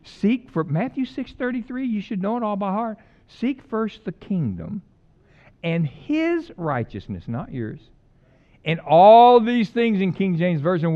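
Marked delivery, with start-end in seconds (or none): 3.3-10.0 slow, deliberate recitation of the verse; slow scripture quote. Acted. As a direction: lay each phrase down slowly. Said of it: "quoting Matthew 6:33 slowly".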